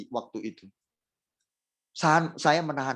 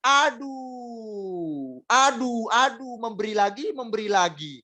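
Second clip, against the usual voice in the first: grudging sighs of "aduh", higher and put-upon; mock whining; 5 semitones higher than usual. Preacher mocks a complaining churchgoer, whiny grumble. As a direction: mimic a reluctant giver moaning about sacrifice. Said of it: "Jangan pernah Anda berkata".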